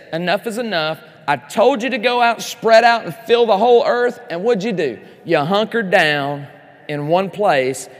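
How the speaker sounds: booming rebuke of a disobedient people; voicing God. Preacher voicing God scolding the people at Babel, loud and stern. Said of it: "where God steps down and says".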